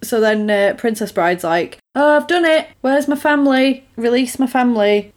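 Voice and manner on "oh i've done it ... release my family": hammed-up pleading. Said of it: "So then terrible acting ensues".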